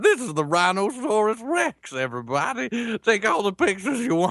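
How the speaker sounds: put-on very high, sing-song, swooping senile old man voice. Acting out a man showing off his fake dinosaurs to a crowd, imitating a senile old man. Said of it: "just this senile old bastard".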